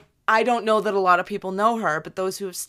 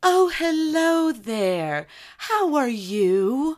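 gentle droid voice; 5 semitones higher, much slower than usual. Retold or imitated. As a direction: voice a kind ship computer, slowly. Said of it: "she had this very".

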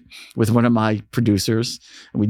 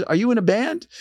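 higher-pitched imitated British accent; a singer, British accent; 11 semitones higher than usual. The singer addresses the kid, imitated British accent. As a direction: say it up high, lightly British. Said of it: "the singer has a British accent".

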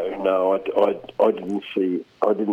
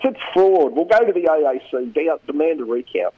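mock yell, high at first and easing off; Constance yelling out; 6 semitones higher than usual. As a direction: imitate a losing candidate rallying supporters. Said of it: "down there just yelling out".

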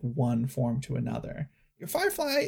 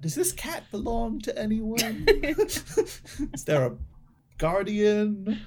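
annoyed; 8 semitones higher than usual. Acted. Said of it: "starting to get a little more annoyed".

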